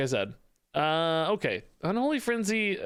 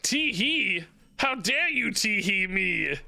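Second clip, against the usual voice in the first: mock outrage; 4 semitones higher, slower than usual. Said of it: "manliness that's like".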